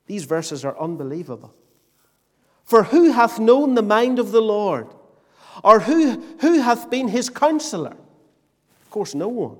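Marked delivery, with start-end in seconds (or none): 2.7-8.0 forceful, ringing Bible reading from the pulpit; preacher quoting scripture emphatically; declaimed scripture. Acted. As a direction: put the rhetorical questions to the congregation with force.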